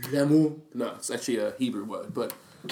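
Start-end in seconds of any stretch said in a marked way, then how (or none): 0.1-0.6 Lamu in a French accent. Real, not acted. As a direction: give Lamu a French sound, open ending. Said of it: "I'm saying a French accent".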